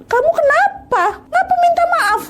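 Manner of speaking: very high, bewildered questioning; baffled, asking fast why she apologises; husband baffled on the phone; confused husband. Retold or imitated. Confused husband answering crying wife.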